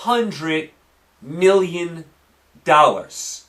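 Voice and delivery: hundred million dollars spaced out word by word with pauses; said again slowly. Shown as a demonstration. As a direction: drag each word out for emphasis. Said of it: "Let me say it again slow".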